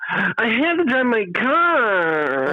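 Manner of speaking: high, drawn-out whine; mocking Gen Z whine, very high and slow; whiny. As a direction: whine it like a put-upon twenty-year-old. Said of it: "Do you whine about everything like this".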